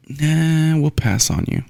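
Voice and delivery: drawn-out high first word, then back to normal; dismissive refusal. Acted. Team owners turning down a quarterback, dismissive.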